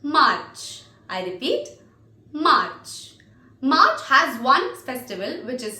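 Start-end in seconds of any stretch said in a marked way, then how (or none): 0.0-0.8 MARCH drawn out with a clear final ch; careful pronunciation demo. Shown as a demonstration. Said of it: "this is how you pronounce March". 2.3-3.1 MARCH drawn out with a clear final ch; careful pronunciation demo. Shown as a demonstration. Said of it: "this is how you pronounce March".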